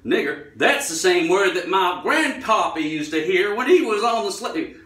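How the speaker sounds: put-on loud, high, wrong accent for a Black character; badly miss a Black character's accent, rising in pitch; botched Black man's accent. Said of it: "wrong accent for the black guy".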